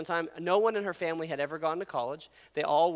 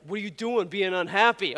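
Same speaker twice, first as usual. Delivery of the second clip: mock Boston accent; 2 semitones higher, 4 dB louder than usual. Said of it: "what is he, from Boston?".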